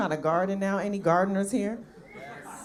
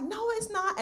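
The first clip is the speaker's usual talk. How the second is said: indignant denial; 11 semitones higher, 6 dB quieter, slower than usual. Retold or imitated.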